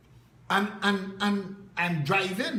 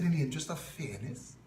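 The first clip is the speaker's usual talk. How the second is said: quick, softer disbelieving echo of his phrase; incredulous echo; 4 semitones lower, 5 dB quieter, faster than usual. Retold or imitated. Retelling his reply to the reporter, an incredulous quick echo. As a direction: throw his words back at him in disbelief. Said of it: "I said".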